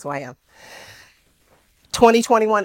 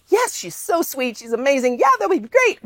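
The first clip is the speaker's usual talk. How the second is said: high, sweet accepting voice; sweet woman; 8 semitones higher than usual. Retold or imitated. The woman accepting a coffee invite, high and sweet. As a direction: lightly voice her warm yes.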